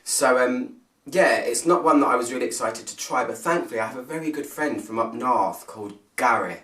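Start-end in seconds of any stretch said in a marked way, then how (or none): 5.0-6.6 a light attempt at a Northern English accent; bad northern accent. Reviewer naming a friend from up north, mock northern accent. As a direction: try a friend's northern accent, not very well. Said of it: "Did I do that accent right".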